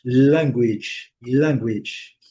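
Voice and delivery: English "language" as LANG-gwidge; careful native-style English "language"; native English accent. Shown as a demonstration. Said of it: "aproximar da pronúncia aí dos gringos".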